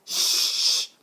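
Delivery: loud hushing shout at the class; shushing yell. A narrator's reading. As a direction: silence the room. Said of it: "Mister Lace yelled".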